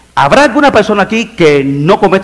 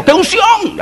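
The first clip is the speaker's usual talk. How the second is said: high-pitched hyped-up revival cry; mock fervor; slower than usual. Preacher mocks those stirring emotions from outside, high hyped-up cry. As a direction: imitate someone whipping up emotion, pitch leaping high. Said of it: "mover emociones diciendo".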